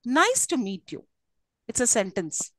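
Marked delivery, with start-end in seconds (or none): 0.0-1.0 "Nice to meet you" falling away at the end; statement tune, falling on "you". Shown as a demonstration. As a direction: let the pitch drop on "meet you". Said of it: "falling tone".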